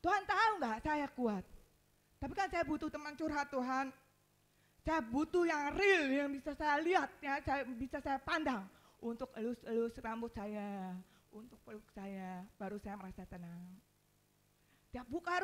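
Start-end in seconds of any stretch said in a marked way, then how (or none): 0.0-8.6 raised, insistent plea to God; retold tearful plea. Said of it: "sampai nangis-nangis". 9.0-13.8 retold tearful longing. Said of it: "sampai nangis-nangis".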